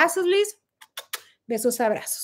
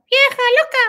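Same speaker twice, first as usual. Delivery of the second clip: mock insult; 11 semitones higher, 6 dB louder, faster than usual. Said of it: "le decía".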